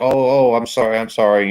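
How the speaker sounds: put-on apologetic Boston accent; quick sorry in a Boston accent. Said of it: "in his little Boston accent he's got".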